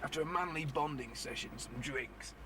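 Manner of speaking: lightly put-on news voice-over; newscaster voice. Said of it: "That was my newscaster voice".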